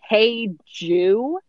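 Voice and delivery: puzzled echo rising at the end; incredulous question. Retold or imitated. Rachel questioning what was said on the phone, incredulous. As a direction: question it back in disbelief. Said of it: "and Rachel's like".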